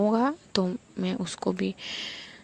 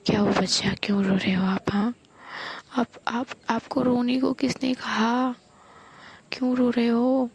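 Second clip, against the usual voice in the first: higher, near-tears coaxing of a loved one; tearful comforting; 4 semitones higher than usual. Acted. Diya soothing crying Mahi, voice close to tears. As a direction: comfort her as if about to cry yourself. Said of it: "दिया का भी voice ऐसे लग रहा होता है जैसे दिया भी रो रही है".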